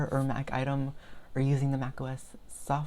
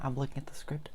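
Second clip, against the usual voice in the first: whispering; 6 dB quieter, faster than usual. Real, not acted. Aside while explaining the script.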